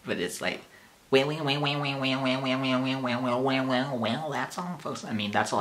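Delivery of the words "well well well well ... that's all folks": a hint of Porky Pig, a bit higher. Vlogger attempting Porky Pig for fans, lightly stammering. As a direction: stammer through it like the cartoon pig. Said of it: "I can do the voice".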